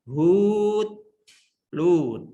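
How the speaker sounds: hud and lud read slowly with distinct melody; slow teacher demo of hud, lud; contrasting intonation. Shown as a demonstration. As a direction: read hud then lud, letting the tune carry them. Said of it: "Bacanya itu loh, musiknya aja".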